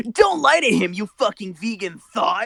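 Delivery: mock yell. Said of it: "Sonic yelled out".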